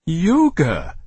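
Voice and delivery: a mild disdainful exclaim; scornful exclamation. Acted. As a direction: sniff at the idea. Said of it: "exclaimed Ishbel".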